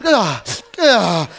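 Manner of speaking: demo calm breaths. Shown as a demonstration. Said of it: "tu réussis à faire".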